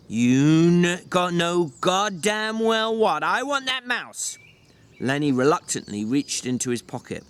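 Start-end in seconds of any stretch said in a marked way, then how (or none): 0.1-4.4 angry. Acted. George loses patience.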